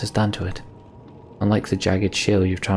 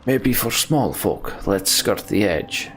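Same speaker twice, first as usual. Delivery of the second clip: hesitant slow doubt; slower than usual. Acted. Character weighing the ice.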